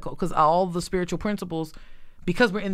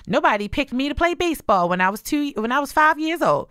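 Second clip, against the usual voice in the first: put-on whiny child; 7 semitones higher, 3 dB louder than usual. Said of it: "it just went back to".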